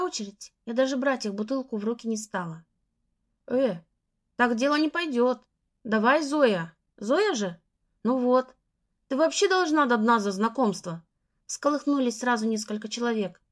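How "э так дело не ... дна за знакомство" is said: pushy coaxing, louder. Acted. Group pressuring narrator to drink.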